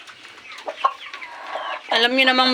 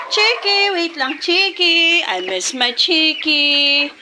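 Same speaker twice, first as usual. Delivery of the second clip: high cooing, drawn out slowly; fond cooing; 3 semitones higher, much slower than usual. Real, not acted. Vlogger cooing slowly to her pet chicken.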